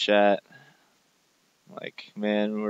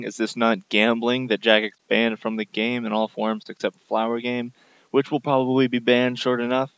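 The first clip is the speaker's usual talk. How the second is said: angry rant. Real, not acted. Ranting against game updates.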